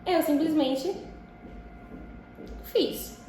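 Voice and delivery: yawning through the words; words stretched by a yawn. Real, not acted. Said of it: "Por isso que eu tô bocejando assim".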